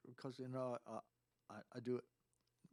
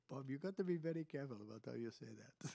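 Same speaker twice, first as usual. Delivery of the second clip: retold warning in mock Italian accent; 2 semitones higher than usual. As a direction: imitate a careful Italian advising Bob. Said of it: "like in Italian".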